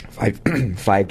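froggy, throat-clearing radio host; gravelly radio voice. Real, not acted. Radio host blaming wind and trees for his gravelly voice. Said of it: "that special gravelly radio voice".

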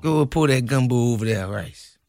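put-on Cajun accent; amateur imitation of Cajun speech; bad movie Cajun accent. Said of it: "trying to do a Cajun accent in a movie".

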